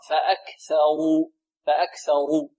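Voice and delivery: slow فأكثروا with full, heavy ر. Shown as a demonstration. Teacher models the rule for students, heavy ر in فأكثروا. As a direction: thicken the ر at the end of فأكثروا. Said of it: "فهنا تفخم".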